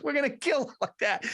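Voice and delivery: high-pitched movie-character exterminator; old-school exterminator. Retold or imitated. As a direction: play a hammed-up old pest-control man. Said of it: "he just goes".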